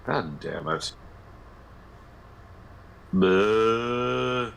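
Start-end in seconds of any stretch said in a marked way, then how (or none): 3.1-4.5 beached walrus noise. Shown as a demonstration. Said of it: "Just make beached walrus noises".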